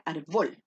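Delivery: "árbol" said wrongly as ar-BOL, weight on the last syllable; stress on BOL. Shown as a demonstration. Teacher shows the wrong stress to pupils, ar-BOL. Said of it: "Si se cargara en bol".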